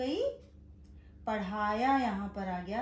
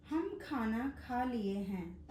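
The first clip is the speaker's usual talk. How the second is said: slow dictation; slower than usual. Shown as a demonstration. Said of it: "पहला वाक्य है".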